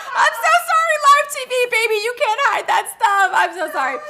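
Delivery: laughing with food in mouth; mouth full. Real, not acted. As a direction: talk through a bite of lunch. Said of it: "oh my gosh, I just ate lunch".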